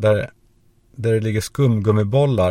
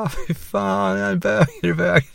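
much higher, whiny disgusted wail; disgusted panicked boy; 10 semitones higher than usual. Retold or imitated. Boy splashed with piss runs to shower, high disgusted wail. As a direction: squeal in mock horror as you run. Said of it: "bara sprang in i duschen".

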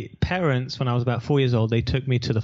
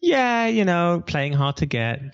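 mock coy girlfriend; 5 semitones higher, slower than usual. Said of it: "she was like".

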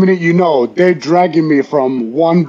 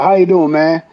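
lightly imitated southern accent; 2 semitones higher than usual. Retelling a big player's greeting in the bar, light southern accent. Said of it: "southern accent".

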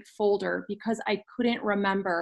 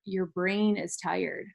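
calm and simple; 5 dB quieter, slower than usual. Retold or imitated. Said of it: "she said to me so clearly and so simply".

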